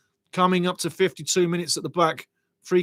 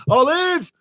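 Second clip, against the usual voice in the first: high, loud sitcom call of "Olive!"; mock sitcom shout of "Olive!"; Arthur calling Olive; 11 semitones higher, 6 dB louder than usual. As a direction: bellow "Olive!" like the hen-pecked husband. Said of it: "Arthur ... Olive from On the Buses".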